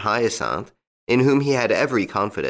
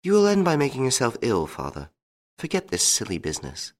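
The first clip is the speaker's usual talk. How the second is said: gentle daughter's reproof, starting higher and falling away; 4 semitones higher, faster than usual. A narrator's reading. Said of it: "She answered gently".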